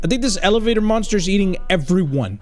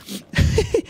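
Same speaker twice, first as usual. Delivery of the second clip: nervous laugh; 14 semitones higher than usual. Real, not acted. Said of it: "I'm nervous laughing".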